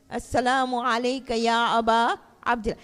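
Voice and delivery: ordinary talk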